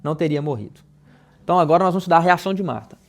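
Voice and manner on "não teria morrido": Marta's grieving words spoken gently and softly; soft, sad lament. Shown as a demonstration. Pastor reading Marta's words to the church, softly sad. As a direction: let the sentence sink in sorrow. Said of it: "no tom em que eu estou falando?".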